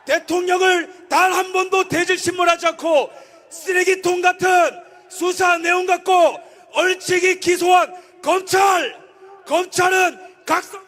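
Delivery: fiery political rally speech; roaring rallying speech. Acted. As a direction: shout it to the crowd.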